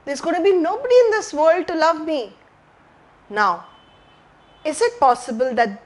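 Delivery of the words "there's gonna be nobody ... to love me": lightly voiced scared child; a touch of a lonely child's fear; child's frightened thoughts. Lost child thinking nobody will love him, mildly frightened voice. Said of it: "Mind may be thinking".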